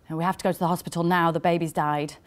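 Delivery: quick, matter-of-fact retelling; businesslike announcement of terrible news. Retold or imitated. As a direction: say it briskly, as a simple fact. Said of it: "in a voice so matter of fact".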